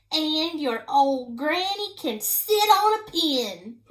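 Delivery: slow, loud, taunting yell; yelled insult. Acted. Pig yells an insult at the wolf, slow and loud. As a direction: jeer it out slowly. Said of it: "the third little pig yelled".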